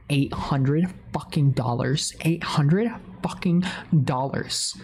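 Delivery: slow, weighty word-by-word delivery; stunned disbelief. Retold or imitated. Streamer reveals the painful price tag, stunned. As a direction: spell out the shock slowly.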